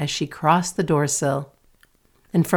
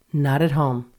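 monotonous. Acted. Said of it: "the same monotonous response".

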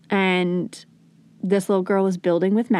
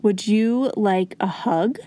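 calm offer; slower than usual. Shown as a demonstration. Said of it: "How can I help you feel calm".

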